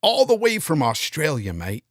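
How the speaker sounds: badly faked Australian twang; attempted Australian accent. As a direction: have a half-hearted go at an Australian accent. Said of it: "Can't do the accent".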